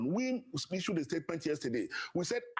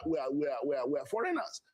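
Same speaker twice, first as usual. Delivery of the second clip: whispered aside; 4 semitones lower than usual. Real, not acted. Sarcastic aside in debate.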